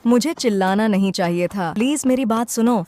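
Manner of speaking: urgent pleading. Acted. Sister begs runaway brother to listen, loud urgent plea. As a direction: call out an apology urgently.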